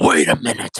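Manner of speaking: gravelly, superhero-style voice. Repeating a question about who is cheating, this time in Batman voice. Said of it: "Let me do it with Batman's voice".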